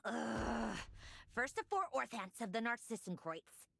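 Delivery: grumble, groan, then rise in exasperation; annoyed. Acted. Sandrone interrupted by yet another call, annoyed. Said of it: "I really hate that ringing tone".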